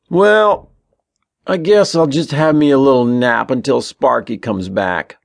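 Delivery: loud, high start easing down. A narrator's reading. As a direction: announce it aloud for your brother to hear. Ben playacting loudly beside his brother.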